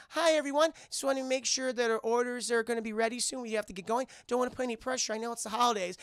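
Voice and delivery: lightly voiced reindeer checking in; Olive. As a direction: pitch it up, apologetically polite. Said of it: "And she goes".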